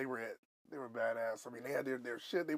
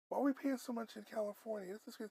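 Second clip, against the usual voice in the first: higher, astonished at cheap gas; amazed disbelief; 8 semitones higher, 5 dB quieter, faster than usual. Retold or imitated. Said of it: "I'm like".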